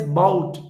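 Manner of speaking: "bout" held long and stressed; stressed syllable. Shown as a demonstration. Teacher contrasting with the weak prefix, "bout" stressed and drawn out. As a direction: lean firmly on "bout", drawn out. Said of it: "this is stressed".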